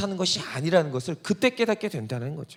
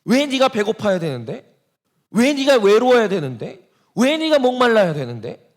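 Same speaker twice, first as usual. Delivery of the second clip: rising, a bit louder indignant questions; Satan venting indignation; 2 semitones higher, 4 dB louder than usual. Retold or imitated. Satan protesting the believer's hunger and thirst, building indignation. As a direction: build the grievance line by line. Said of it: "사탄이 울분을 토해요".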